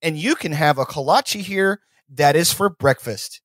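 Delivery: lightly mocked stump speech, slowed down; politician impression. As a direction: imitate an awkward candidate working the crowd. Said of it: "he's like".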